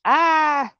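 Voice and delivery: loud, held high "ah"; high triumphant "ah". Shown as a demonstration. Gardener showing squash reaching the top, high sung-out "ah". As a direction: let out one high, sustained cry.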